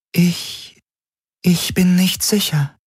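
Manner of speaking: a calm, distant alien intelligence; alien Helix voice. A narrator's reading. Helix hesitates.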